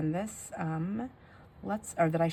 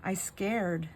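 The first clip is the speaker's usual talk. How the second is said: put-on toddler; 3 semitones higher, much slower than usual. Toddler telling mom she's scared, lightly imitated child voice. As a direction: imitate a small child calling mama. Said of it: "Macy, out of nowhere, goes".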